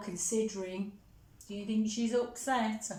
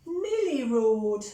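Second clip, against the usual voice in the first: louder little copycat roar; 5 dB louder than usual. A narrator's reading. Teacher reading Millie copying Monty, playful roar. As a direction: echo the roar, bigger still.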